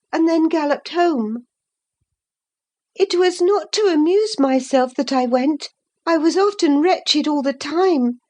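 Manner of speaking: put-on high girlish voice telling her secret; young Catherine confessing. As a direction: confide eagerly, a little guilty. Catherine tells her secret at length.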